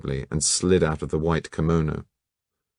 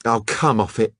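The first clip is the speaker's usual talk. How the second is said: violently; 4 semitones higher than usual. Acted. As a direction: snap it at them. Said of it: "said the model violently".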